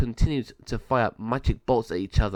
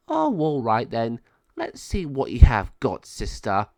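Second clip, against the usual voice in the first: taunting villain; 5 dB louder than usual. Acted. Malvador accepts the challenge.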